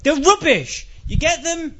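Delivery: mock-outraged rant, climbing high; angry. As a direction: explode over something trivial, voice rising sharply. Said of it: "Something that gets me angry".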